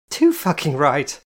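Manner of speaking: loud, slow, emphatic shout. Acted. Jane shouts back at Kitty, loud and emphatic. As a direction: bellow it out.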